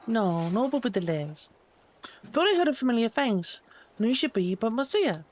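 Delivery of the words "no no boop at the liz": lower, insistent "No, no boop at the liz"; lower and firm. Pretend. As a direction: drop the voice lower, stressing "boop".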